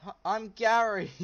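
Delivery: very high, loud squeaky goblin. Acted. Goblin Gary greets the stranger in a high squeaky shout. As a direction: squeal it like an excited little goblin. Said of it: "Goblin says".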